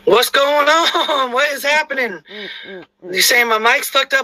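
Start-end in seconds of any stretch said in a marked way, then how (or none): 0.0-2.2 slow puzzled question; drawn out and bewildered; confused. Real, not acted. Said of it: "My voice is different?".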